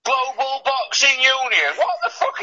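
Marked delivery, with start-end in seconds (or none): 1.8-2.4 high-pitched exasperated cry; incredulous outburst. Real, not acted. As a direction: yelp it in disbelief. Outraged at a made-up boxing belt.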